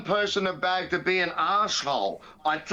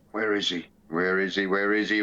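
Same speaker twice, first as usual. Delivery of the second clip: mock searching; 11 semitones lower than usual. Searching for the fighter's name.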